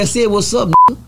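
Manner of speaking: squared-up demand, voice jumping on the last word; confrontational challenge. Retold or imitated. Prison storyteller retelling how he challenged the inmate, confrontational. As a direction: call him out hard. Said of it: "Like that".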